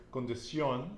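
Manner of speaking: "condición" stressed on the last syllable "ción"; final-syllable stress. Shown as a demonstration. Teacher introducing example word, final stress on "condición". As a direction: land on the accented "ó" of "condición". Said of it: "accent over the O".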